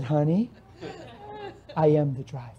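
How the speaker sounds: low chuckling reveal; laughing softly. Retold or imitated. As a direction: let the laugh leak through the punchline. Punchline through laughter.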